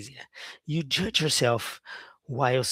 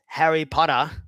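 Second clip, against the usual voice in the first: Australian accent; 3 dB louder than usual. Shown as a demonstration. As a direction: say Harry Potter like an Australian guy. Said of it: "an Australian guy would say".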